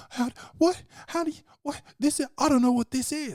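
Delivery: high, startled stammering; panicked high-pitched denial; flustered disbelief. Retold or imitated. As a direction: squeak out the confusion like she's been caught. Acted flustered woman quote.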